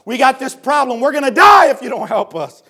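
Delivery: acted plea building to a shout; mock desperate appeal, building; crying out. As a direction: start restrained, rise to a loud, urgent cry. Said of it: "they cry out to Jesus saying".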